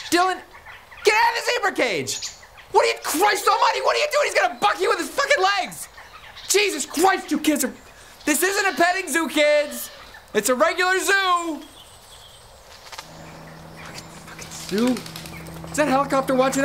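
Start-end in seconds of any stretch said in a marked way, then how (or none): 0.1-11.6 put-on yelling at kids.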